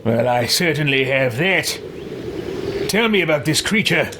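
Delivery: put-on character voice, confident; theatrical, affected self-assurance; self-assured game hero. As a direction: play a proud hero taking charge. Player voices his character.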